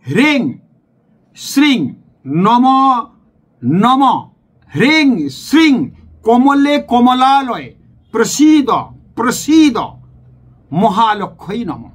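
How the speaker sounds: slow careful mantra recitation for learners; clear mantra pronunciation. Shown as a demonstration. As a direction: spell out কমলে কমলালয়ে syllable by syllable, drawn out. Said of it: "পরিষ্কার মন্ত্রটা উচ্চারণ করছি".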